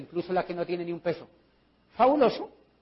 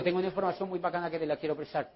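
fast, softer private aside; confidential offer; 2 semitones lower, 6 dB quieter, faster than usual. Acted. Recruiter offering information away from the others, confidential. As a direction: offer it discreetly, for one listener. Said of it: "no le hablo enfrente de los demás".

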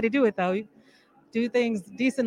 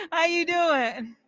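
excited greeting; 7 semitones higher, 7 dB louder, slower than usual. Real, not acted. Greeting a friend in crowd.

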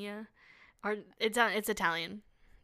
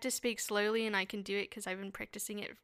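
Australian accent. Shown as a demonstration. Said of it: "here's my Australian accent".

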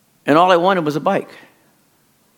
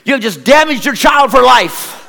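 laughing mock drama; 7 semitones higher, 4 dB louder than usual. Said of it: "I said".

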